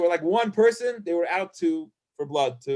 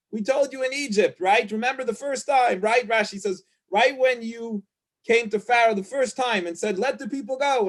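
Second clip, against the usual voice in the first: higher, indignant reproach; complaining Israelites; 4 semitones higher than usual. Retold or imitated. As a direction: nag him like a fed-up crowd. People complaining to Moses.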